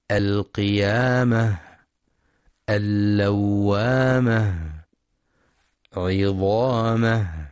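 the ha at the end of القيامة breathed out clearly; whispered final ha. Shown as a demonstration. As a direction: let the final ha be audible air. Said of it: "لهمس الهاء في رؤوس الآيات".

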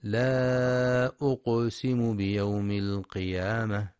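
slow recitation with the ق of أقسم released in a small rebound; qalqala on qaf. Shown as a demonstration. Teacher demonstrates echoing qaf in أقسم to listeners. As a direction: bounce the silent ق in أقسم with a clear echo. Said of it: "لقلقلة القاف الساكنة".

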